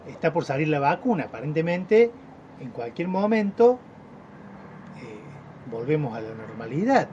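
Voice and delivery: rising on "en cualquier momento", long pause, then "volvemos a la normalidad"; suspenseful pause. Shown as a demonstration. Teacher showing how a pause builds expectation, rising then pausing. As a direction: build it up, hold, then drop the news. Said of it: "Podemos jugar con las pausas, ahí generando expectativas".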